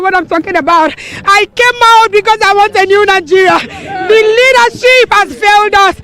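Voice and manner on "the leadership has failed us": crying. Real, not acted. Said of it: "That's why I'm crying".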